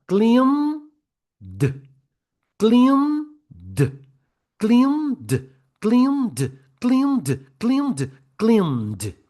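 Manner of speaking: high, loud rhythmic drill of "Cleaned" as one syllable; "Cleaned" repeated like a train, gaps shrinking until the d joins on; locomotive drill. Shown as a demonstration. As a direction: chant "Cleaned" with the final d split off, then closing up. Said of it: "Vamos pra locomotiva de novo".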